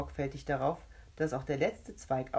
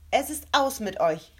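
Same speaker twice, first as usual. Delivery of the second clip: higher, louder cry; triumphant call; 8 semitones higher, 8 dB louder than usual. A narrator's reading. Rebecca declaring victory over the ghosts: loud triumphant call. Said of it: "rief Rebecca".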